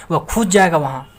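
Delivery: a touch of mock anger on खुद; emphatic stress. Shown as a demonstration. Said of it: "गुस्सा के बोलेगा".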